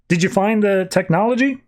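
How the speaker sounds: just ask it lightly, a bit up; Lex asking. Retold or imitated. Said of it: "Lex to come over the comms and just like".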